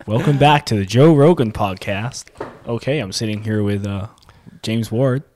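lightly mimicked podcast host opening; Joe Rogan. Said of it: "those very terrible Joe Rogan impressions".

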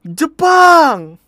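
big drawn-out high yell; mock shout. Guard yelling to people in the lift, comic shout. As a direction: re-enact the guard's full-volume holler. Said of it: "waktu dia teriak".

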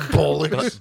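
mock British exclamation. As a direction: say bollocks like a cartoon Brit. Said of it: "Are you British?".

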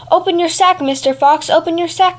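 the cat calling out to the fox in alarm; crying out. Acted. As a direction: shout a warning up from the tree. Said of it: "cried the cat".

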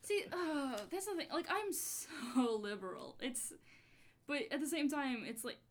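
put-on high, bubbly Valley Girl accent with laughter; like, totally Valley Girl, giggling. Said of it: "I read this with a Valley Girl accent".

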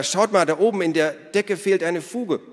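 high, loud, urgent exclamation; excited calling. A narrator's reading. Ada shows the others the ceiling, excited calling. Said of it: "rief Ada".

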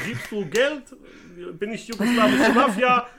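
put-on loud, high-pitched Yugoslav gangster accent; mock Yugoslav mafia accent. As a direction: do a hammed-up Yugoslav mobster demanding money. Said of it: "einen solchen Akzent sprechen".

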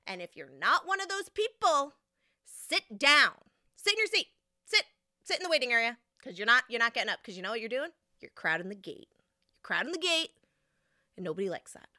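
bossy agent telling people to sit; stern gate agent. Retold or imitated. Gate agent voiced scolding crowd.

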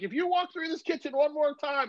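high-pitched mock mom warning; a mother's threat to her running kid, lightly mocked; mom scolding. Son imitating his mom's warning while she fries bologna, high and mocking. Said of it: "And she's like".

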